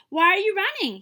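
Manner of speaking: loud, high shout. Acted. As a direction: shout at the stampede. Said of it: "he shouted".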